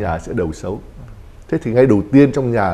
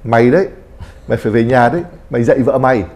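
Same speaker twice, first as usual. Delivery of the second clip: a mildly raised, scolding mother's order; mock angry mother; 4 dB louder, faster than usual. Mother scolding her son before his wedding, a mock angry order. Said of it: "nếu mà bà ấy mà giận dữ".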